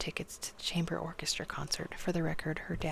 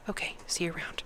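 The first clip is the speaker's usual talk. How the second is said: robotic, whispered monotone. Acted. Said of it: "Tibby said robotically".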